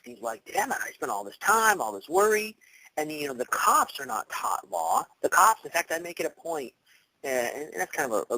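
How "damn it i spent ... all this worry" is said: mildly annoyed. Retold or imitated. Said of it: "And he's all pissed".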